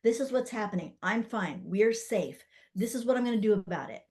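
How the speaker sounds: easy, friendly reassurance; calm talk to baby. Shown as a demonstration. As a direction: tell baby plainly, like a friend. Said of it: "like you're talking to a friend".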